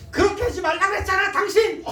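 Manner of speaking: high, loud scolding yell at a spouse; mock furious spouse yelling; angry shout. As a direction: snap at your husband in a rage. Acted marital quarrel, shouting.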